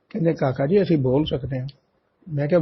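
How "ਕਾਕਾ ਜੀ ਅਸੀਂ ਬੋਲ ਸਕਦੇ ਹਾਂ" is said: calm reply. Retold or imitated. Guru's voice replies calmly.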